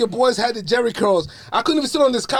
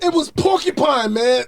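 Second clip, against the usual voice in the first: raised, higher pleading protest; protesting yell; 5 semitones higher than usual. Retold or imitated. Kid protesting his hair to mom, raised voice.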